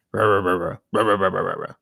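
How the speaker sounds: barking "rah rah" noises; mock dog barking. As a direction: bark it out like a dog that ignores you.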